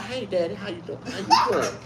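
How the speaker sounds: high, soft coo to daddy; hammed-up high sweet woman; 1 mock cooing woman. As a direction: purr it like a smitten girlfriend. Woman voiced lovingly to daddy.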